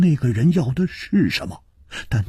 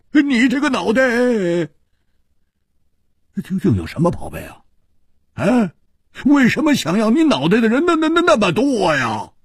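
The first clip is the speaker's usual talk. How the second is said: teasing laugh; 9 semitones higher, faster than usual. A narrator's reading. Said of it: "笑着说".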